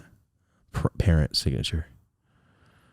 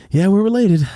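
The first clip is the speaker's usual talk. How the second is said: laughing aside; 12 semitones higher, 6 dB louder than usual. Real, not acted. Laughing aside about dad.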